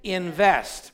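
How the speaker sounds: Invest said out loud and firm for the church to repeat; call-and-response word. Shown as a demonstration. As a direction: lead the congregation on "Invest.". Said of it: "say this word with me".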